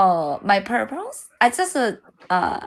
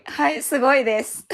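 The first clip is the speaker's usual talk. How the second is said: laughing praise; 4 semitones higher, faster than usual. Real, not acted.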